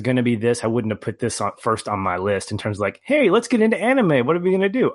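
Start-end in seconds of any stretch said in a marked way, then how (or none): 3.0-4.9 high, chirpy mock eagerness; mock enthusiasm. Host mimics his own keenness to start an anime list, mock enthusiasm. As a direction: pitch it way up, playfully overeager.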